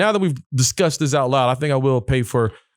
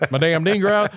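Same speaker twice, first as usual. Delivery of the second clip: a touch of hillbilly twang; lightly put-on hillbilly accent; 4 semitones higher than usual. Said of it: "Who sound like a hillbilly now?".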